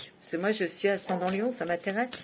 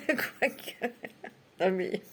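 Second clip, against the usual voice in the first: laughing; 5 dB quieter, slower than usual. Real, not acted. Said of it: "Ça me fait rire".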